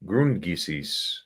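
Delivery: "Grundgesetz" drawn out slowly and quietly, with a falling end; slow German try. Shown as a demonstration. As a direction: carefully test the word "Grundgesetz". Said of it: "Am I close?".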